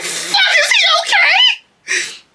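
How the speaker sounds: very high, slow laughing shout; panicked cry. Retold or imitated. Retelling how she reacted to a squirrel falling from a tree, shrieking. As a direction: shriek it like a fallen squirrel is a tragedy. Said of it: "and I was like".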